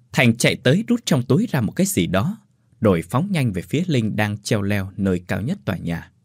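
ordinary delivery, nothing marked

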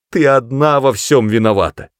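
high, loud accusation; shouting. A narrator's reading. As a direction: hurl the blame at her. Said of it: "крикнула миссис Броуди".

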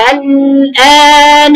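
الآن drawn out slowly with the hamza opened. Shown as a demonstration. Teacher shows the girl the opened hamza. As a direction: open the hamza and hold it long. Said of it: "فما جبت الهمزة كأنها ساكنة".

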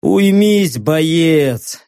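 lazy order through a yawn. Acted. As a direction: yawn the command. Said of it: "зевнул я".

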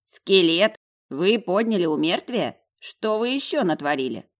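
high, loud, incredulous questions; shocked questioning. A narrator's reading. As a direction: react aghast at the news. Dog gulps, shocked by the news. (потрясённые громкие расспросы)

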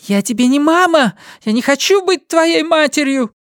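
high angry woman's shout; Linda shouting. A narrator's reading. Linda shouts at her son that she is not his mother. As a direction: snap it at the child. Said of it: "кричала она".

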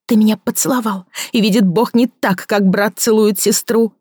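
a woman confronting a former lover; Victoria's voice. Acted. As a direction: press him, hurt and accusing. Victoria accusing.

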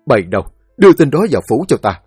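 a quick, loud barked order; lệnh quát. Acted. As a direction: snap the command at the guards. Quan lớn ra lệnh cho lính. (ra lệnh nhanh và to)

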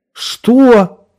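very high, loud startled shout. A narrator's reading. Friend hears the dead man is alive, shouting. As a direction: yell it in disbelief. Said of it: "закричал голос на другом конце".

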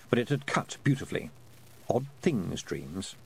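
ordinary delivery, nothing marked

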